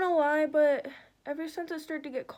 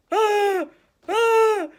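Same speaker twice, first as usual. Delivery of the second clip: high, loud short shrieks; loud staged "ah!" bursts; mock gasp and screams; 8 semitones higher, 11 dB louder than usual. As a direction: let out short high yelps, played up. Demonstrates startled sound in primer story.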